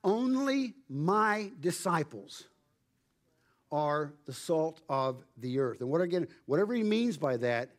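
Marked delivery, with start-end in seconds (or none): 0.0-5.8 slow, weighty stress on ONLY MY, pausing before "are the salt"; emphatic. Retold or imitated. Preacher spelling out what Jesus is saying here, slow and emphatic. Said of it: "he's being emphatic".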